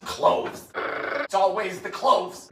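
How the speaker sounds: hushed dread; ominous whisper. Acted. Host names the dreaded spice in an ominous whisper. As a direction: whisper the word like a curse.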